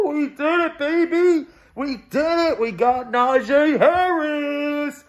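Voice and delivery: real joy, slowing on the name; triumphant shouting. Real, not acted. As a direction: fan shouting over the draft pick. Celebrates the pick.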